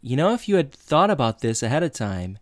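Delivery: wag your finger at the teacher; mock lecturing. Sean turns the teacher's own lecture on him, mock stern.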